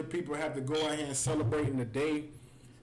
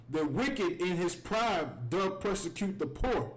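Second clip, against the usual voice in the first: solemn reading; 3 semitones higher, slower than usual. Acted. Reads scripture in solemn style.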